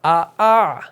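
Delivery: second آ eased gently after a firm first; soft second hamza. Shown as a demonstration. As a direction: glide into the second آ softly. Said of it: "نرمی سے اس کو تسہیل کہا جاتا ہے".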